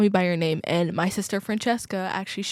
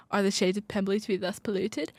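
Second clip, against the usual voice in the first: put-on light, quick British accent; understated British English, tossed off; 4 dB quieter, faster than usual. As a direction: quote it briskly with a hint of British. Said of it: "I just slipped into my British accent".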